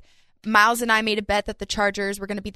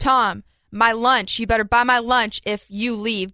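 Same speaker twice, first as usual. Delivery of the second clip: drawn out, louder call of Tom; mock demand; 4 dB louder, slower than usual. Teasing Tom on air that he owes her lunch, slow loud call.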